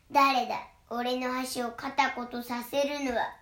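loud, slow troll bellow; troll roaring. Acted. Troll bellows at the little goat, slow and loud. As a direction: bellow it out like a troll under the bridge. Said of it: "とトロルが怒鳴りました".

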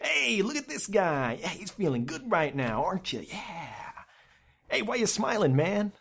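high, slow, ribbing bartender voice; teasing bartender. Retold or imitated. Bartender teasing a lone smiling customer, high and drawn out. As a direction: needle the grinning guy at the bar.

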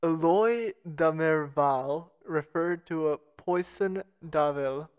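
slow, halting attempt at "Eloy de Merval"; botched French name. Real, not acted. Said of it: "I'm going to botch this so hard".

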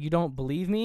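a touch of acted anger, voice lifting; retold anger. Woman challenging the doubting detective, mildly angry. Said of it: "Gets angry".

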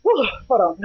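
winded after a long poem; catching your breath between lines. Real, not acted. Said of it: "I know you gotta get that breath".

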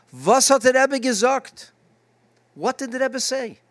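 high, eager asking; eager question. Retold or imitated. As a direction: ask it breathlessly, eager. Students eagerly ask.

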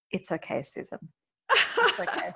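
mildly imitating a husband's dry tease; dry teasing. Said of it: "his very dry, funny".

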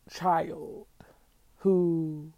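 hushed whisper on two words. Real, not acted. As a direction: drop to a breathy whisper. Solemn aside about another child.

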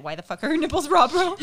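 loud and high, cracking up mid-line; laughing while voicing his baffled question; laughing mock question. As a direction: ask it through laughter, mocking him. Mocking the guy's question.

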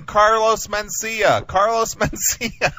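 high, drawn-out calling of the name; demonstrated yell. Shown as a demonstration. Host shows prankster what to yell, amused calling out. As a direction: call it out slowly, breaking into a laugh. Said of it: "Start yelling".

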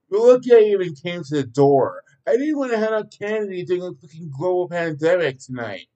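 shouting. A narrator's reading. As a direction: snap at the kids in frustration. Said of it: "shouted Daniel".

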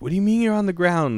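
high-pitched baffled question; retold disbelief. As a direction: act out a bewildered reply. Retold baffled reply to caller.

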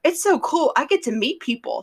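lightly hammed-up excitement, pitched high at first; mock enthusiasm. Ron gushing about meeting suitors, mock excited.

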